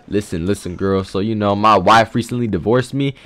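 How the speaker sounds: low, soft chat-up voice; mock smooth-talk. Player chatting up a girl about his divorce, low mock-suave voice. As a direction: drop low and confide, hammed-up.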